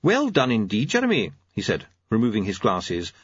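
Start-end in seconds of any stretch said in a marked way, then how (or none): 0.0-1.3 lightly voiced old doctor; pleased elderly doctor. Doctor Hopkins voiced by narrator.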